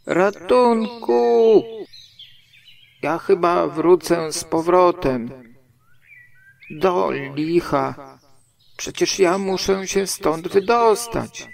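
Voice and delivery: high, drawn-out cry for rescue, then distressed protest; calling for help. A narrator's reading. Pooh stuck in the hole, shouting for help. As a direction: call out high and urgent from a tight spot. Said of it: "krzyknął Puchatek".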